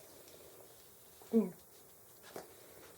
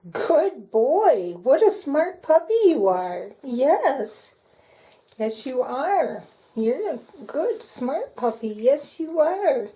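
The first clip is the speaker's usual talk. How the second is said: squeaky praising a dog; 4 semitones higher, 3 dB louder, slower than usual. Real, not acted. Praising puppy during training.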